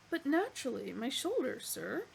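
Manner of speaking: cheerfully obliging, a hint of cow; contented moo-ing voice. Animal pleased to offer its shoulder, contented. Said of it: "mooed the animal contentedly".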